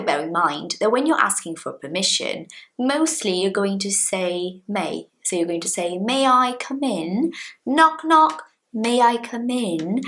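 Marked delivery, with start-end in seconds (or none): 6.0-10.0 slow, sweet rising ask; polite request. Shown as a demonstration. Teacher acting a polite visitor asking to come in. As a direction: ask permission very nicely. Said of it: "Asking for permission in a very nice way".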